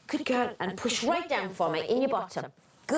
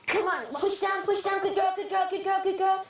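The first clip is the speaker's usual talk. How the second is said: higher, driving encouragement; coaching push; 5 semitones higher than usual. Real, not acted. Midwife driving the mother through a contraction, higher encouragement. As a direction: keep her pushing, steady and high.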